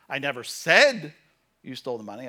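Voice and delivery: "said" punched loud, then a pause; stress on SAID. Shown as a demonstration. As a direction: hit "said" hard and drop off after it. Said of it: "depending on what word you emphasize".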